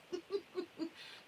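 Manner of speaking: a high, soft laugh that fades away; a quick, amused giggle; real laugh. Real, not acted. Laughs at granddaughter's question.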